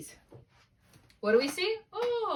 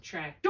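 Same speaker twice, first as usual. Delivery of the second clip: "tractor" as trac-TOR, questioning; stress on second syllable; 7 semitones higher than usual. Shown as a demonstration. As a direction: try "tractor" with a full, stressed "or". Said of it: "So is it tractor?".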